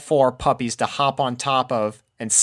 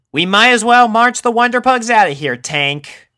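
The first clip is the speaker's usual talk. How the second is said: Rainbow Dash voice; 12 semitones higher, 7 dB louder than usual. A narrator's reading. Rainbow to her tortoise.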